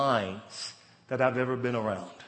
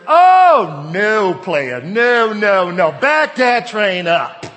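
much higher and louder, slow and firm on back that train up; wife scolding; 6 semitones higher, 12 dB louder, much slower than usual. Retold or imitated. Wife shutting down her husband's rude tone, loud stern scolding. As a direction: put him firmly in his place.

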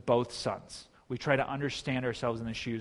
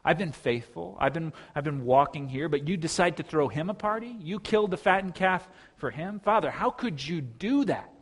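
mildly indignant, incredulous protest to a father; bitter older brother; 3 semitones higher than usual. Acted. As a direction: reproach Dad, building on the final questions. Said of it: "So he's bitter here".

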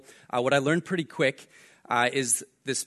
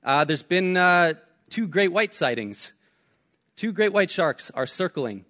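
urgent warning; 5 semitones higher than usual. Retold or imitated. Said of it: "He's like".

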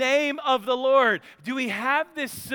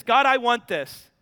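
put-on loud, higher childish tantrum prayer; whiny child praying; 4 semitones higher, 6 dB louder than usual. Believer praying like a demanding child, loud whine. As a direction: whine at God like a spoiled kid. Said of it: "Are we the kid that says".

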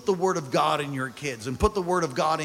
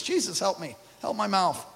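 quiet plea; 5 dB quieter than usual. Real, not acted. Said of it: "I'm so convicted reading this".

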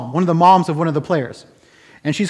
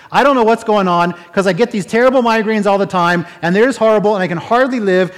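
mildly raised imitation of excited chatter; talking loud. Hockey mom suddenly talking about her migraines, mildly loud imitation. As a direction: run on a touch louder, imitating her. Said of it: "talking loud".

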